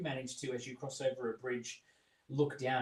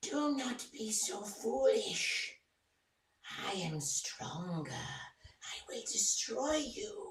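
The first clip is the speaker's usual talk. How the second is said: eerie, high monster stage whisper; 9 semitones higher than usual. A game master voices the Nothic speaking inside a player's head: Nothic whisper. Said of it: "you hear the Nothic whisper".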